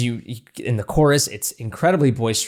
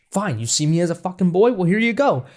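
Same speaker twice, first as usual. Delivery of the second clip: mocking; 5 semitones higher than usual. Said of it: "almost like he's mocking".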